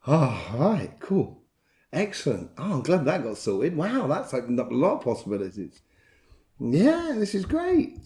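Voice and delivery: imitating relieved people sighing, mild; a hint of relief and delight; relieved crowd. People relieved after a worry, mild happy sigh. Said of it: "Just kinda going".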